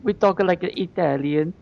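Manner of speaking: put-on Italian accent. Pitching the next podcast's accent to co-hosts, mock Italian accent. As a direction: put on a joking Italian lilt. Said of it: "what's the accent for the next podcast?".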